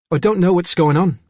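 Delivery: put-on Cockney-accented confused child; Cockney boy. A narrator's reading. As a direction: puzzle it out in a boyish Cockney accent. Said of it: "it was a boy with a Cockney accent".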